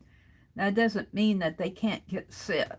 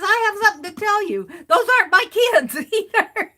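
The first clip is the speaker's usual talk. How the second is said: laughing; 10 semitones higher, 7 dB louder, faster than usual. Retold or imitated. Girl's surprising confession retold.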